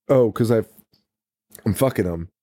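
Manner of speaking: offhand mock confession; nonchalant. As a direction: drop it casually after a pause. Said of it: "well, nonchalantly".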